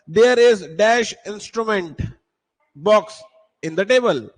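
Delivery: extremely slow, word by word; slow dictation. Shown as a demonstration. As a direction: drag each word for the class. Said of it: "teacher reads exercise slowly". (बहुत धीमे बोलना)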